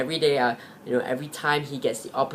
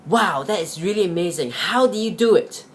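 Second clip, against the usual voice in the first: higher, wide-eyed wonder at the feat; amazed rabbit; 5 semitones higher than usual. Acted. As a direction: rabbits marvelling at how their friend outran the dogs. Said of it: "all the other rabbits were really amazed".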